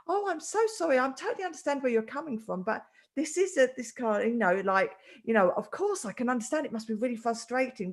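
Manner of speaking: gentle, apologetic reassurance; kind, loving. Retold or imitated. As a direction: soothe an upset stranger with understanding. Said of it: "pure love and, and kindness".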